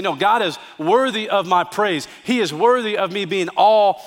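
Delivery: preacher's passionate vow of worship; fervent declaration. Acted. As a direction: proclaim it like you mean every word. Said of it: "and you say".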